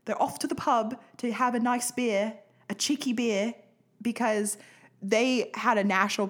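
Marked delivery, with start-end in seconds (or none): 0.1-3.5 mock British accent. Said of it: "'cause that's what they call 'em".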